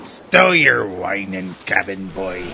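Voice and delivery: gruff scolding. Acted. Bosun scolds the cabin boy.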